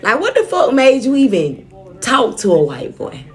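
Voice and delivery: worked-up telling-off of oneself, retold; scolding herself. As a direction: tell yourself off in mock exasperation. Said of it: "talking to myself, like".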